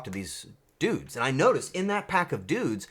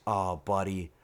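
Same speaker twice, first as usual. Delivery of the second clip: ordinary talk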